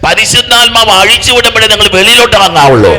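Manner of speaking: loud, high-pitched sermon climax; impassioned preacher at full volume; full-force preaching. Acted. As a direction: preach it out loud, building to a hallelujah. Exhorts congregation forcefully.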